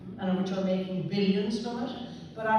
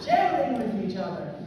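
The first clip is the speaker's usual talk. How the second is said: laughing; 6 dB louder than usual. Real, not acted. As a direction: still laughing as she corrects. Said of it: "not sharing each other, sharing".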